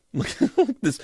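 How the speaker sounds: high, slow laughing delight. Real, not acted. Reader laughing while showing viewers a card.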